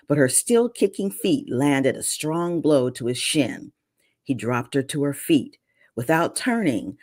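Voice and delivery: reading a novel aloud, lightly dramatic; story narration. A narrator's reading. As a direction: read the scene like an audiobook. Author reads her novel aloud.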